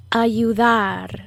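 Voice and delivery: Ayudar with the last syllable drawn out; teacher's careful Ayudar, weight on the end; subtle stress in Ayudar. Shown as a demonstration. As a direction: lean gently on the final syllable of Ayudar. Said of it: "in which part of the word I emphasize".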